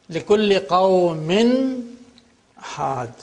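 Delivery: قَوْمٍ with a clear n before هَادٍ; clearly pronounced noon. Shown as a demonstration. Teacher showing Tanween without merging, noon clearly pronounced in قَوْمٍ. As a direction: sound the noon fully at the end of قَوْمٍ. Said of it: "you pronounce the noon".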